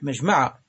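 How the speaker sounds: مجمع with a short a on the second mim, majma'; fatha reading. Shown as a demonstration. Teacher citing the common recitation, مجمع said majma' with fatha. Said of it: "قرأه العامة بالفتح".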